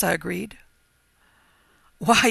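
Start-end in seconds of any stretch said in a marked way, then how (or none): 2.0-2.3 loud, higher excited outburst; quavering excitedly. A narrator's reading. Farmer learning where the stranger slept, quavering excitedly. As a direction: burst out in agitated excitement. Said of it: "he quavered excitedly".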